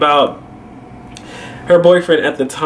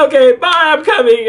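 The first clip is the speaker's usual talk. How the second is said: high, brisk goodbye; acted insistent farewell; retold hurried sign-off; 12 semitones higher, 3 dB louder, faster than usual. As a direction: cut the call short, pitched up. Retold cutting call short.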